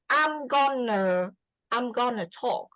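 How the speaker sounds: GONNA run together as one casual word; spoken-language contraction. Shown as a demonstration. Teacher showing a student spoken English, GONNA as one word. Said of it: "speaking language. For example, you say".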